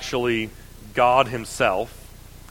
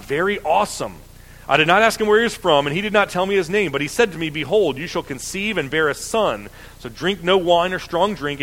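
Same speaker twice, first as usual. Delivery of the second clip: raised, quicker Bible reading voice; lifted public reading of scripture; 3 semitones higher than usual. Acted. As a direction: read the passage out to the congregation. Reads scripture passage aloud.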